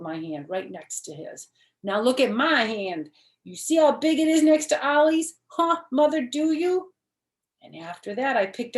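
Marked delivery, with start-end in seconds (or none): 1.8-6.9 put-on high, loud, insistent little girl protesting; a kindergartner stamping her foot in words; small girl loudly insisting to her mother. Junie B compares hands.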